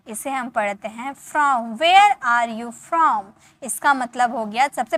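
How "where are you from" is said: very slow, each word of Where are you from drawn out; slow model phrase. Shown as a demonstration. Teacher slowly modelling a phrase for the students. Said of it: "इस तरह से आपको बोलना है".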